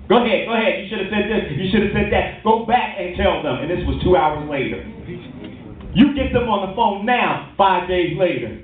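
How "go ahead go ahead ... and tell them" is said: egging on. Acted. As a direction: play the devil winding someone up. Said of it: "he's steadily gaming you up and turning you on".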